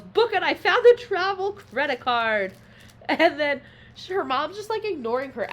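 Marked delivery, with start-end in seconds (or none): 0.0-2.5 high, loud, excited mock yell; retold yell. Mom shouting to book the flight, mock yelling. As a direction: call it out urgently as the mom. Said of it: "your mom just yells".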